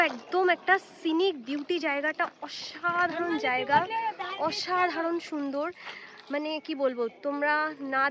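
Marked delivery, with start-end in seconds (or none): 2.5-5.7 slow awe. Real, not acted. Awed by the heritage caves.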